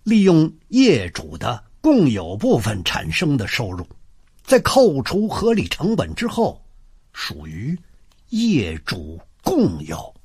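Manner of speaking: measured reading from a law booklet; reading aloud. Acted. Husband reading his wife the Civil Code clause, deliberate reading. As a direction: read out the legal clause deliberately.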